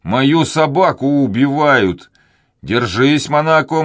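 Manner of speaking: громко и высоко, в тревоге за собаку; кричит, спасая собаку; отчаянный крик. A narrator's reading. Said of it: "закричал Данник". (Данник кричит собаке, которую убивают)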